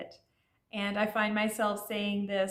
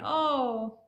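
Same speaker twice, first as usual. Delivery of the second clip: cooing; 5 semitones higher, slower than usual. Shown as a demonstration. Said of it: "that's just kinda like saying".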